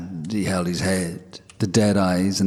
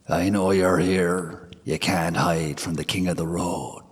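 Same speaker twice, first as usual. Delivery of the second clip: menacing whisper. Acted. The Dullahan calls at the gate.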